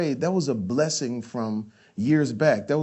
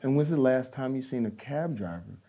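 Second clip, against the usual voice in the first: Michael Mann coaching; 5 semitones lower, 5 dB quieter than usual. Retold or imitated. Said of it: "He says".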